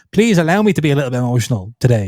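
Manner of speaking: ordinary talk, nothing marked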